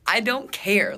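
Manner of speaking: high, loud exasperated dismissal. Retold or imitated. Woman reacting to date's bragging about money, exasperated. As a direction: push back in exasperation.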